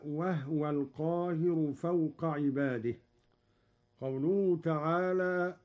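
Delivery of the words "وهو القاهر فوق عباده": "وهو" said wahwa, with no vowel on the haa; silent haa. Shown as a demonstration. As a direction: recite "وهو" as wah-wa. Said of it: "ومثلها قوله تعالى". (تسكين الهاء في "وهو")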